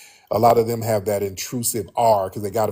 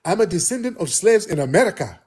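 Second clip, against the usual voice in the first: higher-pitched mock quote of her; imitating a woman's claim; 7 semitones higher than usual. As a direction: put on her voice, higher and pointed. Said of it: "she was like".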